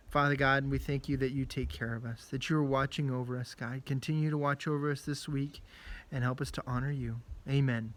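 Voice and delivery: soft, earnest prayer voice; closing prayer. Real, not acted. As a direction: pray quietly for the families.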